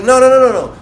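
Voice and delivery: high, loud rapid string of no's; urgent protest. Retold or imitated. Staff stopping him at the door, urgent protest. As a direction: cut in to stop someone leaving.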